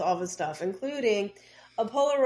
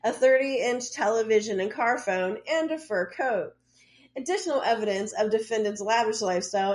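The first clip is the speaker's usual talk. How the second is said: reading aloud; 3 semitones higher than usual. Acted. Reads out a court document.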